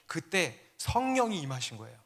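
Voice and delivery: ordinary talk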